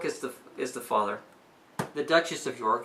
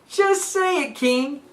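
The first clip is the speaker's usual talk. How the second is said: pushing the king; 11 semitones higher, 4 dB louder, slower than usual. Retold or imitated. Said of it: "so she's like".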